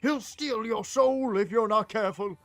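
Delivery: high, urgent scolding voice; high-pitched agitated villager; alarmed warning. Acted. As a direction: warn a stranger off in alarm, loudest mid-way.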